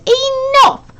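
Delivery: high, sharp imitated command; the worst voice. Charlie retelling to Benjamin the chilling voice he heard. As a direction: mimic the terrible voice that cut everyone off. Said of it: "that was the worst voice I'd ever heard".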